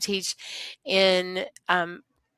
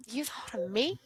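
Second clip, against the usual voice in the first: whispered wonder; 3 semitones higher, 6 dB quieter than usual. Real, not acted. Moved by former student.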